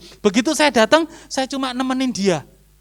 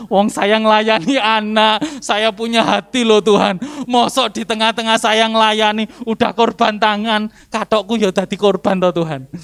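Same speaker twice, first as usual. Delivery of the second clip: plaintive complaint to God; 6 dB louder than usual. Retold or imitated. Retold complaint to God in prayer.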